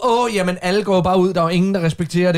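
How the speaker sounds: tossing off a mock complaint about everyone; mock exasperation. Radio host mimicking people fed up with the rumor, exasperated. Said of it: "det her billede på".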